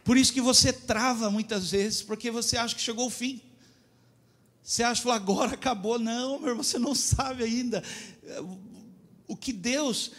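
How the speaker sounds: high, loud fervent preaching; preaching at full force. Real, not acted. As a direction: drive it home to the church. Pregação em voz alta. (pregação fervorosa)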